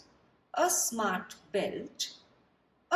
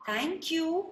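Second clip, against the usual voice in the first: goat voice; 8 semitones higher than usual. Acted. Goat thanks George.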